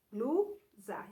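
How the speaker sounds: "Blusa" in two separate syllables; syllables sounded out. Shown as a demonstration. Teacher showing the cluster at the start, syllables sounded out. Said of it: "Está logo no início".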